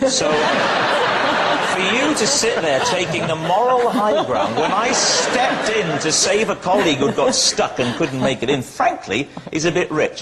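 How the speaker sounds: mock indignation. Mock outrage at Gabby's jibe.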